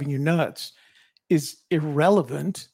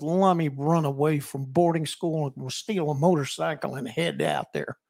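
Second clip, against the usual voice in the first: put-on light Texas accent. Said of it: "the Texas accent suddenly".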